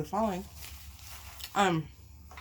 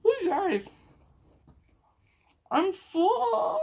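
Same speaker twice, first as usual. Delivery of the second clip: high, tearful quaver; fighting back tears; overwhelmed and crying to her viewers; choked up; 12 semitones higher, 4 dB louder, much slower than usual. Real, not acted. Choked up on camera.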